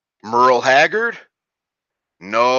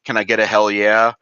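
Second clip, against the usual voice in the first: hype call. Retold or imitated. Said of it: "let me give you a L'chaim instead of".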